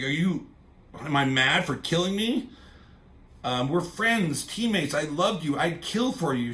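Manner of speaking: mock accusation from a betrayed friend; freaking out. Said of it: "freaking out".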